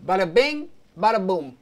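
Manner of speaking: bada bing, bada boom, punched and loud; playful exclaim. Real, not acted. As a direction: cheer it out like a job well done. Celebrating a finished step.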